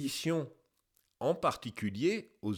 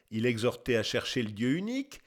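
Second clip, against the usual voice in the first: lower, brisk recap to oneself; quick musing repeat; 4 semitones lower, faster than usual. Real, not acted. Narrator weighing up the testimony just read, quick and musing. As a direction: go back over the quote quickly, lower and less formally. Narrator muses over the quoted words.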